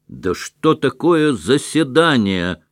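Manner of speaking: voice from the crowd shouting. A narrator's reading. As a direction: shout the question from the back. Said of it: "крикнул голос".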